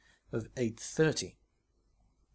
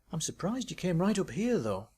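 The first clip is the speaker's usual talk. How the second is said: Tracy's voice; 6 semitones higher than usual. Acted. Tracy's voice in read story.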